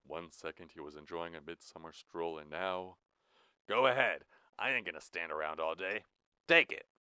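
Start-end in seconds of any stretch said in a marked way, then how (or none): 3.7-6.9 loud impatient command; warden's order. Acted. Blue ordering Jack to take the gun. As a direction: bark at him to take it.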